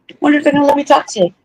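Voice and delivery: high, fast, sarcastic mock musing; mock wondering. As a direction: toss it off in a quick, high, put-on voice. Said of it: "where I'm like".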